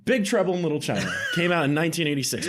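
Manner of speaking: fast booming announcer voice. Acted. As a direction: hide tiredness under a big announcer voice. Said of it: "trying to hide it underneath my announcer voice".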